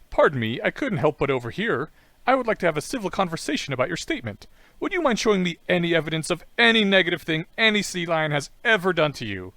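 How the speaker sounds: lightly voiced, over-polite pest; annoying sea lion. Sea lion challenging a woman's remark, mildly hammed-up polite pestering. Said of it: "conveying the annoyance of the sea lion".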